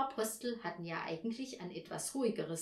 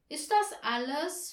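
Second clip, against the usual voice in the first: put-on higher, let-down boy's question; disappointed child; 7 semitones higher, 5 dB louder than usual. A narrator's reading. Paul finds only a note, mildly disappointed voice. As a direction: ask with a touch of dismay. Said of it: "fragte Paul enttäuscht".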